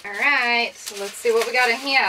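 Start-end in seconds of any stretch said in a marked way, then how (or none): 2.0-2.1 breathless gasp, then hushed awe; shocked gasp. Real, not acted. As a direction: gasp in disbelief, hushed and high. Stunned gasp at gift.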